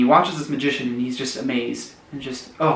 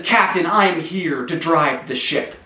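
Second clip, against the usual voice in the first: demanding; 3 semitones higher than usual. Acted. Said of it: "he demands".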